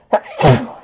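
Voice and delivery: sudden cough into the elbow; loud cough. Real, not acted. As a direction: cough hard into your elbow. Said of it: "Oh, that was a big one".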